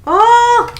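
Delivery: high, loud ooh then oh; startled little cry at the draw; surprised gasp. Real, not acted. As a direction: gasp at the card as it lands. Reacting to pulled cards.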